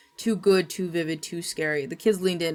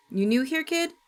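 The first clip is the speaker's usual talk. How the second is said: sighing townswoman; 8 semitones higher than usual. Acted. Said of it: "the woman sighed".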